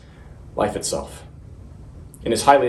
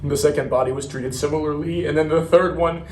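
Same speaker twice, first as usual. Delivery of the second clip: halting, higher-pitched horrified account; horrified recounting; 5 semitones higher than usual. Acted. Marine describing his mutilated comrades, horrified and faltering. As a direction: stumble through it, voice rising in disbelief.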